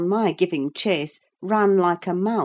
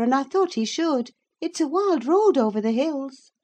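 much higher, louder rustic servant; servant woman voice; 11 semitones higher, 6 dB louder than usual. A narrator's reading. Servant defending Cathy to Mrs Dean, pleading servant. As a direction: speak up as a rough country servant woman. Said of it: "said the servant".

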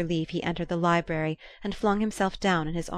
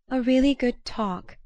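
bright, higher, forced cheer; unnaturally vivid; 6 semitones higher, 4 dB louder than usual. A narrator's reading. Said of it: "smiling with what seemed to Archer an unnatural vividness".

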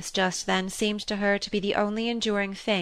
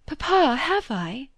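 crying out; 7 semitones higher, slower than usual. Acted. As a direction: let the child's grief burst through. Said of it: "to keep from crying out".

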